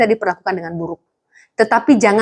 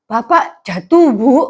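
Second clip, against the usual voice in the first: put-on child telling mum dad fell; slower than usual. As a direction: play the small boy answering his mum. Child answers mother in story.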